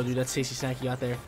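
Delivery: normal talking voice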